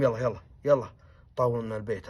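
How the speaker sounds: loud urging; hurrying call. Retold or imitated. Servant hurrying the family to move, loud urging. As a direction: rush them along.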